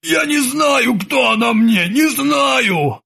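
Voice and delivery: high desperate yell; frantic shout. A narrator's reading. Krueger yells at the old sailor that he doesn't know her. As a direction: shout it, cornered and confused.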